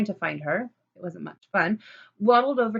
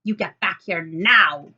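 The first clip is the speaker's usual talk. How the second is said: loud yelling; 8 dB louder than usual. Acted. Lulu yelling at Fleshman as he walks away, furious. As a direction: yell after him to come back. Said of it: "with Lulu loudly yelling".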